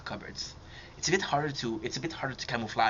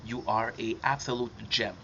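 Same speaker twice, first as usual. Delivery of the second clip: sincere. Real, not acted. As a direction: say it earnestly, without joking. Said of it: "I mean this sincerely".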